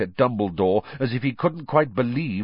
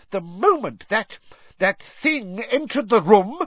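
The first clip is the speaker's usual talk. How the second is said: screamed; 12 semitones higher, 3 dB louder than usual. Acted. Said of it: "she screamed".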